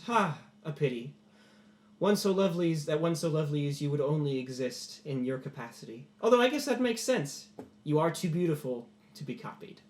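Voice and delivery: lightly voiced courtly admirer; flattering lord. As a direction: pay grand compliments with a touch of lordliness. Game master voices Katros flattering.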